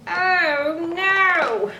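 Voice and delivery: high, loud hammed-up gasp; mock dismay. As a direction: play the shock big for kids. Button pops, dramatic dismay.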